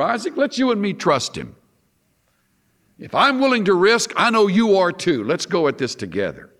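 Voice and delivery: lightly acted father urging trust, pitch lifted; emphatic, encouraging appeal to a son; Abraham. Father answers his son on the mountain, lightly acted urging. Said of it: "Isn't it great how he answers Isaac?".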